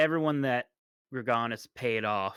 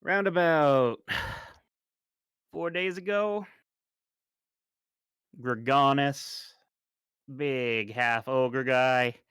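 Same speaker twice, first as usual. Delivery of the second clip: Svilt's voice. Acted. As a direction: draw out the names, a light weary sigh. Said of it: "Svilt, uh, says".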